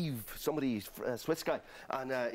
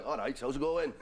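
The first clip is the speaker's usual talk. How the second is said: Welsh James Bond. Acted. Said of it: "Welsh James Bond".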